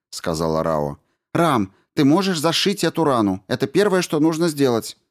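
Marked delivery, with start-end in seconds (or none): 1.3-5.0 higher, firm voice of the commander; commanding woman. A narrator's reading. Commander Rao orders the crew over the radio, firm and high. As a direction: give the order crisply.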